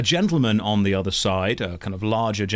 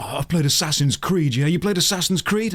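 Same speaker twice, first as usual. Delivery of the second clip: put-on drunk chap; 6 semitones higher than usual. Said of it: "He's like".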